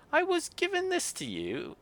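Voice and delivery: a cross Yorkshire artificer grumbling; Yorkshire grumble. Acted. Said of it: "in a thick Yorkshire accent".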